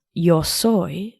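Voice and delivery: Argentine Spanish, yo soy with a sh sound; Argentine accent. Shown as a demonstration. Host shows her own Argentine Spanish, native accent. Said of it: "in my accent".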